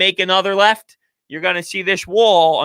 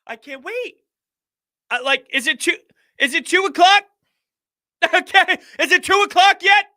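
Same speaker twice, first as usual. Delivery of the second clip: excited; 7 semitones higher than usual. Real, not acted. Impatient fan awaiting the game.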